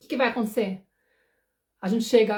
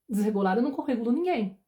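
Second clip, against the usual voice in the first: normal talking voice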